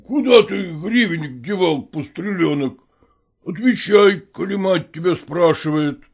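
a hint of a stern, drowsy man demanding an answer; lightly voiced gruff stepfather, half-awake; stern sleepy stepfather. Stepfather interrogating the boy about the coin, lightly stern and drowsy. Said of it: "Строго и заспанным голосом".

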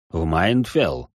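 hesitant, low and slow; unsure voice. Acted. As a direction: say it doubting the way. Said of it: "послышался его неуверенный голос".

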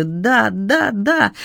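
mumbling through tears. A narrator's reading. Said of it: "бормочу я сквозь слёзы".

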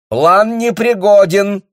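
high, loud, slow retort; shout. A narrator's reading. The bailiff shouting at the baron. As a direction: bark the refusal. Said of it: "крикнул ему Лушар".

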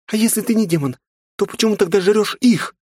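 very high, loud panicked scream; terrified shriek. A narrator's reading. Frightened girl screaming the demon away.

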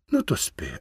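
тихий шепіт, без голосу; ледь чутно прошепотіти, щоб не розбудити. A narrator's reading. Прощання біля сонної дружини. (чоловік шепоче дружині: шепіт)

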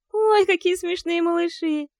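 high, loud delighted coo over cute pups. A narrator's reading. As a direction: gush over the little ones. (умилённо, высоко и громко)

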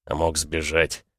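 low, slow, resigned; sighing. A narrator's reading. Iranian admitting the other could have fled, resigned. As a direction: let it sink slowly, conceding the point. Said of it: "со вздохом напомнил иранец".

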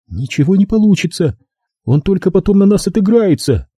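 high, bitter objection; high-pitched dismissal; dismissive captive woman. A narrator's reading. Captive woman rejects plan.

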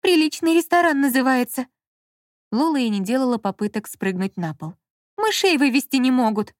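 loud, high indignant complaint; an outraged shout about a decent restaurant; indignant outcry. Acted. Lola indignant, clinging.

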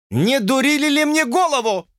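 high, near-shouted demand; mock yell of a hurt youth; almost shouting. A narrator's reading. George nearly shouting at Lucy. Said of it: "почти закричал Джордж".

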